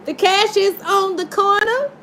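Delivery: high, breaking with laughter; laughing hard. Real, not acted. Tarot reader laughing hard at the spirit's message. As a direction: laugh through the line.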